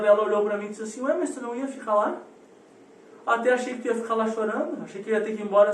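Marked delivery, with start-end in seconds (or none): 1.0-2.2 lightly voiced teasing mother, quick and a little higher; feigned surprise. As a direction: imitate a mum innocently wondering aloud.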